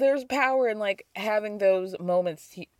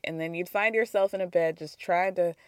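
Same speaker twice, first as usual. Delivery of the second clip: ordinary delivery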